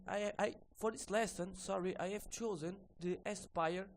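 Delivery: ordinary delivery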